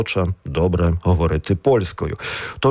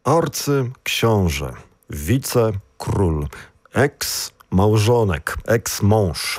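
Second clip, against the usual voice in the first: "król" and "mąż" carry the stress after "wice" and "eks"; stress after the prefix; slower than usual. Shown as a demonstration. Co-host showing prefixed words, stress on the noun after the prefix. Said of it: "наголос на останній склад".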